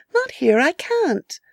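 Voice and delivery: lightly played coy girl. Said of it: "said the girl".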